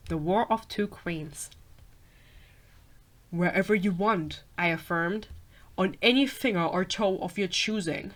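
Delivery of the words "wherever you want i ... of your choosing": werewolf voice. Acted. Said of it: "should I do a werewolf voice".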